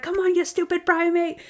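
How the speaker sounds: high-pitched goading jeer; mock taunting. Acting out a detective provoking a monkey, mock taunting. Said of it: "intimidate this monkey and taunt him".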